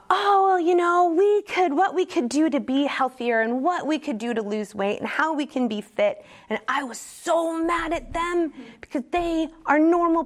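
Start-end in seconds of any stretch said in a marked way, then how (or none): 0.1-6.2 high mocking imitation of cheerful health talk; mocking the family. Wife and daughter chatting about losing weight, mock chirpy and high. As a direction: parrot them high and chirpy, a little snide. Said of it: "they were talking about".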